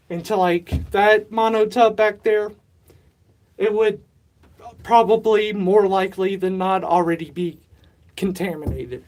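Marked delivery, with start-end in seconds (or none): 3.6-9.0 winded, talking between breaths; breathless after shaking the bucket. Real, not acted. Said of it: "Sorry, I'm out of breath".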